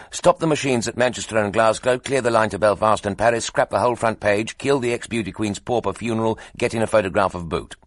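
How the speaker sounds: loud, rapid-fire commands from an editor; urgent orders. Acted. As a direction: bark out orders as news breaks.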